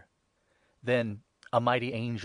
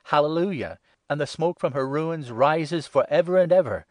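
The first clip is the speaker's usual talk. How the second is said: higher, louder exultant cry; crying hallelujah; 5 semitones higher, 6 dB louder than usual. A narrator's reading. Throng crying out again over the ruined city, loud exultant praise. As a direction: lift the voice in triumph. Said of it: "Again they cried".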